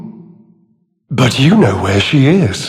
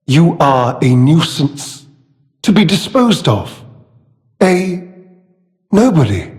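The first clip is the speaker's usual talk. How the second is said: villainous contempt. Acted. Villain belittling a nuisance to be disposed of, contemptuous.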